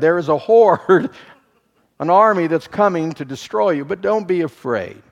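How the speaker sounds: amused, forceful retelling; excited preaching. Real, not acted. Preaching with a laugh.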